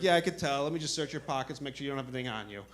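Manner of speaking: soft, easygoing good-cop imitation. Imitating good cop about to search pockets, soft and reassuring. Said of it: "the good cop comes back".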